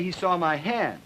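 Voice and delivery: drawn out lightly on hand; plus drawl. Shown as a demonstration. Lecturer demonstrating a mild drawl to the class, slightly drawn out. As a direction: stretch the vowels a little. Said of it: "plus drawl".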